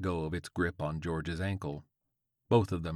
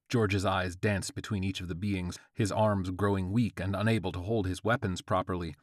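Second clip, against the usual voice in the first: plain reading voice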